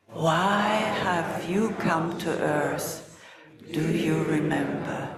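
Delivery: slow, deliberate asking; slow spoken question. Shown as a demonstration. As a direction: ask it slowly to the group. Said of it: "Let's just say that".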